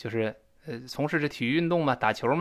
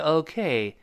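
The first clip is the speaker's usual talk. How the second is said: 'OK' with secondary O and main stress on K. Shown as a demonstration. Teacher summing up the rule, slow 'OK' weighted on K. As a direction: stretch the 'K' in 'OK', slowly. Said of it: "那K更加重读一些".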